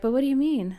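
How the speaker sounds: high, loud, pointed question; condescending. Pretend. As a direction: ask it with a suspicious edge. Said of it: "doesn't have to be condescending".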